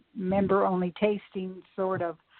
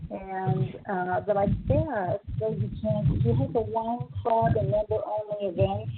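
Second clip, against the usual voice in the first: muffled. Real, not acted. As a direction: voice muffled as if covered. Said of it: "you got muffled there".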